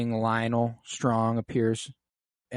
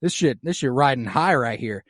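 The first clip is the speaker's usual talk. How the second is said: queen stomping around the castle, hammed up; worked-up mock rant. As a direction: vent like you're buzzing with rage.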